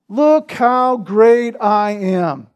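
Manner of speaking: slow, drawn-out mock boast; mock pride. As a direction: imitate a man glorying in himself. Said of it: "This is his pride".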